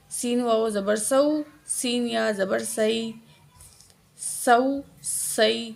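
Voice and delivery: "سین" with a sharp whistle-like s; whistling seen. Shown as a demonstration. Teacher drills seen after explaining it, "سین" with whistling s. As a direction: make the s in "سو، سئی" whistle. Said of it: "سین کی آواز سیٹی کی طرح آنی چاہیے".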